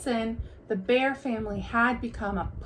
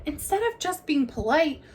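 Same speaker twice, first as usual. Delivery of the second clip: Brother; 5 semitones higher than usual. Acted. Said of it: "he said".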